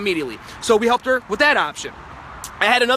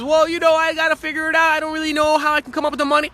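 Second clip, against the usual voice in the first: higher, hesitant mock excuse; excuse-maker voice; 5 semitones higher than usual. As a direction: play the stalling prospect, a touch higher. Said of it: "if they give me more excuses".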